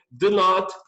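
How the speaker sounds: slow, stressed do not; slow teaching read. Shown as a demonstration. Teacher showing the full negative form, slow. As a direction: spell it out for the class. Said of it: "falar pra você".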